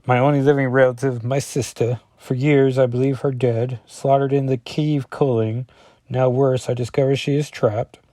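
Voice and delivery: put-on Russian accent, narrated with weight. Colossus grieving his trapped sister in a Russian accent. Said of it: "This is my Russian accent".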